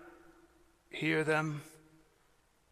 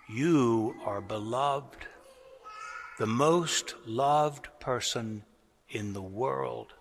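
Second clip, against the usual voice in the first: tender blessing; 3 semitones lower, slower than usual. Pretend. Words every child should hear.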